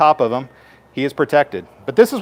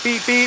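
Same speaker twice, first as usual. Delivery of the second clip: mock beeping; 9 semitones higher than usual. Shown as a demonstration. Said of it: "It'll go beep".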